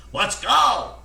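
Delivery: high, loud crow; crowing rooster. A narrator's reading. Cocky Lucky joining the panicked birds, loud high crowing. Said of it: "crowed Cocky Lucky".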